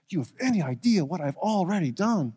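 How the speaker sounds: a worried man starting to protest; stressed plea. Acted. Obadiah pleads with Elijah, stressed and anxious. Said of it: "You can hear or feel the stress in his voice".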